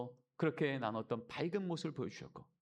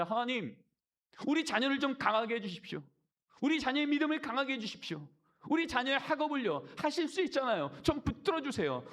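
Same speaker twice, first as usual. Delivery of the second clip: higher, louder imitation of a pleading prayer; 10 semitones higher, 3 dB louder than usual. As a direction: beg God like a worried parent. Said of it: "기도할 때 그렇게 말합니다". (자녀를 위해 간구하는 부모의 기도 흉내)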